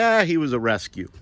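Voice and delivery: mildly offhand brush-off; dismissive, seemingly insincere. Retold or imitated. Owner answering people's condolences for his dog, mildly dismissive. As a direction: shrug off the sympathy lightly. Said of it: "really insincere".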